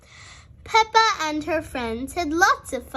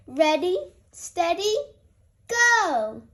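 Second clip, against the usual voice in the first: race start call; 4 semitones higher than usual. A narrator's reading.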